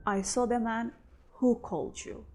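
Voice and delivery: WHO punched clearly, with a full H; stress on WHO. Shown as a demonstration. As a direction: hit the word "who" to point at the man. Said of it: "I want to stress here, who called".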